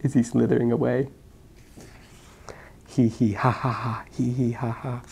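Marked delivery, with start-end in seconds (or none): 2.9-5.0 mock laugh. Snake laughs at joke.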